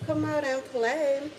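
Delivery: heavy breathing phone whisper. Acted. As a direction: drag it out like a stalker on the phone. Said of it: "No, but for real".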